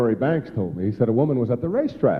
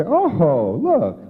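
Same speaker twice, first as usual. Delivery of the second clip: mock delight; 2 semitones higher, much slower than usual. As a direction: gush over the present like a thrilled child. Mock unwrapping a gift.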